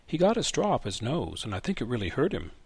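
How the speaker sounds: put-on gruff old man pushing the gadget away; old grandfather. Grandfather voiced in story.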